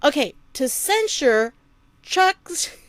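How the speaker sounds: high giggly voice, can't stop laughing; laughing helplessly while trying again; breaking character giggling. Real, not acted. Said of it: "I can't do it".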